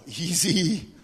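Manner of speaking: a hint of a careless king, laughing it off; lightly voiced casual Pharaoh. Pharaoh brushing off the request, mock casual and laughing. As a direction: toss it off with a chuckle. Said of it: "sagt Pharao".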